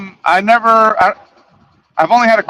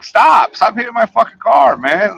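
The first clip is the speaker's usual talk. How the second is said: raised-pitch mock protest; mildly heated, higher-pitched objection; retold angry command; 5 semitones higher than usual. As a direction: act out telling someone off, voice lifted. Retold command while grabbing arm.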